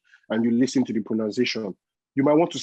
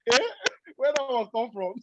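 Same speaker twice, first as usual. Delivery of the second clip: higher, lightly voiced shocked brother; a hint of the brother's disbelief, higher; brother surprised; 13 semitones higher than usual. Brother reacting on the video call, higher surprised voice. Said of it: "My brother said".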